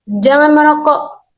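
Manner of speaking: slow, high-pitched "Jangan merokok"; command intonation. Shown as a demonstration. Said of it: "memiliki intonasi untuk memerintah sehingga memiliki nada suara yang naik". (intonasi memerintah, lambat dan bernada naik)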